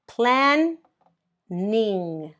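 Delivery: Run, then ning, as two separate beats with a pause; split into syllables. Shown as a demonstration. Teacher to students, splitting running into two syllables. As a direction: break Run and ning apart like two claps. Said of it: "make the two sounds".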